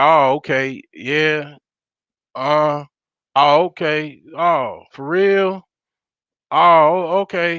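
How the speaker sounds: very slow, uninterested, dismissive put-on tone. Showing how they answer calls that aren't about money: acting out a dismissive tone. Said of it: "You ain't gonna like the tone of my voice".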